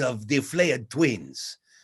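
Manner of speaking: put-on Spanish accent. The speaker demonstrates how Bloodseeker would talk, in a Hispanic accent. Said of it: "he would talk like this".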